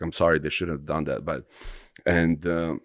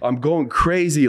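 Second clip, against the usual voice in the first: higher, louder and slow, reliving the panic; retold frantic panic; 10 semitones higher, 7 dB louder, slower than usual. Telling his friend how he lost it, frantic loud cry. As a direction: belt it out like you're losing your mind again. Retelling losing it on mushrooms.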